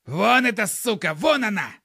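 high loud panicked pointing; terrified yelling. A narrator's reading. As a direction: yell it out in horror. Killer points in terror.

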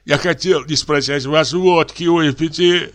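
high whimpering voice of a man who thinks he is dying; frightened old clerk. A narrator's reading. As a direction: tremble through it, half crying. Confessing man.

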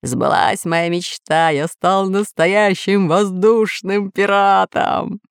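slow, drawn-out pirate boast; character voice, slowly triumphant; exultant shouting. Acted. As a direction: savour it, stretching the words. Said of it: "кричал Бульбуль".

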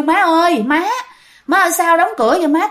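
acted call through a shut door; calling out to mother. Children calling to mother behind a locked door, puzzled calling out. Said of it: "con cái mới kêu".

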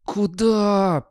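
high, loud, drawn-out challenge; urgent hissed call. A narrator's reading. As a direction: call back a dog sharply. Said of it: "прошипел Гаспод".

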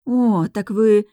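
slow, wide-eyed amazement; amazed. A narrator's reading. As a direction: drag it out in surprise. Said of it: "округляются в изумлении глаза".

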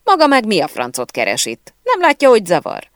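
loud, indignant scolding rising high in pitch; angry director. A narrator's reading. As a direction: tell off an intruder on set. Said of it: "a rendező mérgesen felkiáltott".

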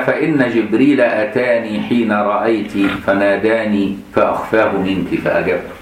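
slow solemn classical reading; slow recitation. Acted. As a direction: read the reproach slowly and gravely.

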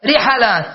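رحلات as ri-ḥa-lāt, short a after ḥ; middle vowel a. Shown as a demonstration. Teacher lists allowed plurals, رحلات as ri-ḥa-lāt. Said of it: "أو تقول رحلات".

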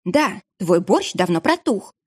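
slow, cross retort; irritated. Acted. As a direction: snap back, annoyed. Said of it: "рассердилась Анна".

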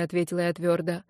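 usual speaking voice

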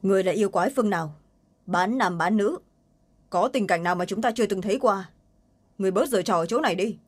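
cold and sharp, rushing the first line; a hard, scornful challenge. Acted. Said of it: "lạnh lùng nói".

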